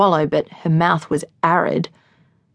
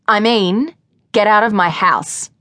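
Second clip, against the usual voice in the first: firm angry order; 4 semitones higher, 3 dB louder than usual. Acted. Lily orders Pete out.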